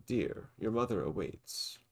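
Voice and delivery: slow, sly villain voice. Acted. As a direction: drawl it with false sweetness. Villain Dalton speaking.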